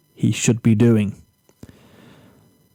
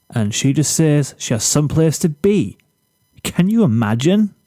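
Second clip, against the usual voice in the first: a hint of a smug boy bragging about his hair; boastful Zephyr. Zephyr to Flash over lunch, lightly cocky and self-pleased. Zephyr retells being turned down.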